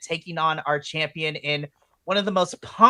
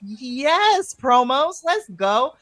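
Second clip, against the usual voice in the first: excited cheer; 8 semitones higher, 5 dB louder, much slower than usual. Retold or imitated. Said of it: "I was like".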